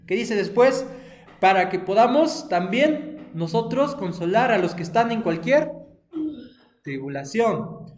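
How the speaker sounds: loud, emphatic Bible reading; preacher reading scripture with force. Acted. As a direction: proclaim the verse to the children. Reads Bible verse aloud.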